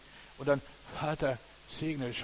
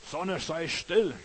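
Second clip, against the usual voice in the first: commanding call; 5 semitones higher, 4 dB louder, much slower than usual. Acted. Joshua commands the sun.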